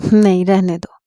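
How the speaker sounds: coquettish. Acted. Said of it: "وہ ادا سے بولی".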